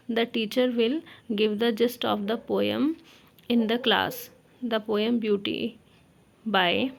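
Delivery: slow, spaced-out dictation pace; teacher dictating notes slowly. Shown as a demonstration. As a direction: spell out each phrase for note-taking. Dictating lesson plan text.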